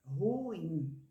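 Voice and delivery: "Ruim" como ru-im, em hiato; duas sílabas. Shown as a demonstration. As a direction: estenda "Ruim" em duas emissões de voz. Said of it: "duas emissões de voz". ("Ruim" dito ru-im, sem juntar numa sílaba)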